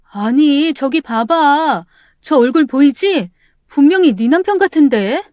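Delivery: alarmed friend pressing her to look; insistent friend. Acted. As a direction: make her look now.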